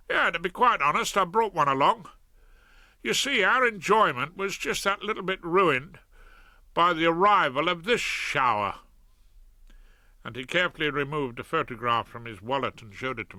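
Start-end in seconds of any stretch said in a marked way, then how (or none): 0.1-8.8 a lightly voiced cheerful South London crook; chirpy and friendly, a bit louder; cheery Fred. Fred about holiday.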